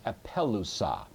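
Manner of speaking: "apelusa" stressed on the third-last syllable, PEL; antepenult stress. Shown as a demonstration. Teacher showing students where the accent falls, antepenult stress. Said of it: "you are able to accent the antepenult".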